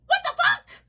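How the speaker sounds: high, loud what the fuck, laughing through it; laughing shout. Real, not acted. Marvelling that it works, a loud laughing shout.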